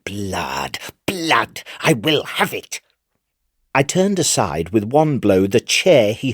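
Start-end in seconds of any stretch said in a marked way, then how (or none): 0.0-0.8 blood breathed out in a whisper; whispered craving. Acted. Madman whispering his thirst for blood. 1.1-2.8 rising frenzy. Acted. Madman crying out for blood.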